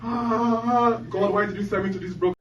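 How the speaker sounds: hammed-up crying baby voice; crying newborn. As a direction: complain to God as a wailing baby. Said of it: "the guy comes out crying".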